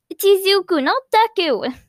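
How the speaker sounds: high, loud correction of a nickname; indignant protest. Acted. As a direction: snap back, offended. Boy protests his nickname.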